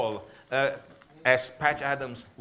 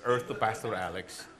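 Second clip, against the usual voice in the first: the second "Earth to Pastor Alex" said lower and softer, a patient teasing nudge; softer repeat of the call; 4 semitones lower than usual. Retold or imitated. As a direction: repeat the wife's call quieter, half to himself. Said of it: "My wife".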